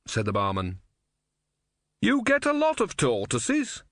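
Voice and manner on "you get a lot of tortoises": high, loud question to drown out noise; said loudly. A narrator's reading. Brother drowning out Om's screams, loud and high. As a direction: raise your voice over the tortoise. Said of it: "said Brother loudly".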